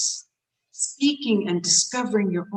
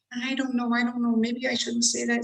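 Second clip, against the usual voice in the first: hesitant self-doubt; 4 semitones higher, 3 dB quieter than usual. Shown as a demonstration. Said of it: "See, as soon as I do that".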